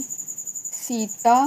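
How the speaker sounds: सीता with a long, stressed "ee"; stressed first syllable. Shown as a demonstration. Teacher giving an example word, stressed and drawn out. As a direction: draw out the first vowel of सीता. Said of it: "सीता में बल ना दें".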